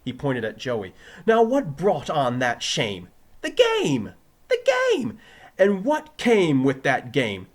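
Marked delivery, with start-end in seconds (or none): 1.3-3.1 loud, slow, high question; triumphant quizzing. Acted. Teacher quizzing his pupil, loud and triumphant. 3.4-5.2 very high, loud exclamations; jubilant shout. Acted. Pupil answering teacher's quiz, jubilant shout. 5.6-7.5 loud, slow, high question; triumphant quizzing. Acted. Teacher quizzing his pupil, loud and triumphant.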